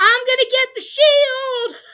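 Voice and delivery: high, loud hollered yell. Retelling a contestant running off: imitating Michael yelling.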